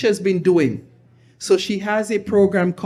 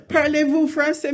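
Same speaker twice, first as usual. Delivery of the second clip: French teacher; 7 semitones higher than usual. Retold or imitated. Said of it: "and she say".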